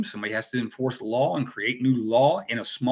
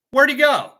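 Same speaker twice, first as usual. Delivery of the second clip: baffled; 13 semitones higher, 8 dB louder than usual. Acted. Acting confused soldier searching.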